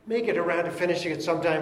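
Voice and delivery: fast, casual, unsure misquote; mock misquote. Preacher misquoting the verse to the congregation, fast and offhand. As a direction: toss it off like God might never finish. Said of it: "No, he said he will complete it".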